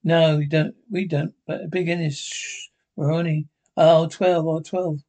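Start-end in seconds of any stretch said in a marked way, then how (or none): 2.2-2.7 sharp, breathy whispered hush; urgent shush. Acted. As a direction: hiss them quiet, fast. Hushing a friend mid-scheme.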